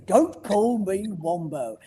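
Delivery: put-on slow, grumbling old wombat; grumpy old Wombo. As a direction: drag it out like a cranky old wombat. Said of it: "and he'd go".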